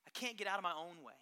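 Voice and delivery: mock frustrated grumble; lightly voiced defeated adult; half-hearted mock complaint; whiny self-doubt. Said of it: "we tend to say".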